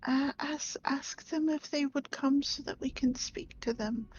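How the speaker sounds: hushed unvoiced whisper. Real, not acted. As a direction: whisper it so nobody hears. Urgent secret request to others.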